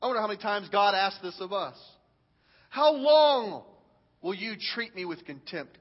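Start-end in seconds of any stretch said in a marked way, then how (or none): 2.7-5.8 pleading God. Shown as a demonstration. Preacher rereads God's plea aimed at the congregation. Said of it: "I want to read this again".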